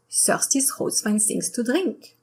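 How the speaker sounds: English with a French accent; th turned to s in a French accent. Shown as a demonstration. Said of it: "the French accent can completely change".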